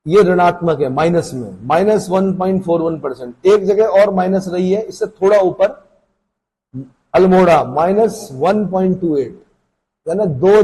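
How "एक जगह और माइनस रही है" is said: ordinary talk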